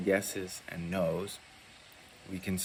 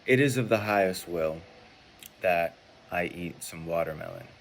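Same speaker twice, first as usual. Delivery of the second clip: "It is of the highest will" said louder and firmly; louder, sure demo statement; 4 dB louder than usual. Shown as a demonstration. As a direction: state it out clearly and firm. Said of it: "So let's say".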